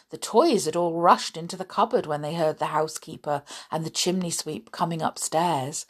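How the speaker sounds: put-on lively read-aloud voice for children; animated children's story narration; storytelling narration. A narrator's reading.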